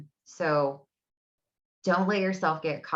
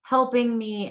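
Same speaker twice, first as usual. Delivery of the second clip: frustrated; 4 semitones higher, 4 dB louder than usual. Retold or imitated. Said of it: "she was really frustrated".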